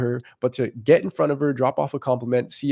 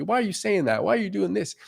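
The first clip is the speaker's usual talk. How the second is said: higher, softer mock questioning; questioning guys; 8 semitones higher, 3 dB quieter than usual. Guys asking their coach about his method, mock puzzled questioning. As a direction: imitate puzzled guys in a raised pitch.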